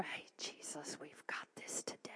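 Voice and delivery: very soft whisper; hushed, confiding greeting; intimate greeting. Acted. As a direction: whisper it like a private secret. Greeting God in the mirror.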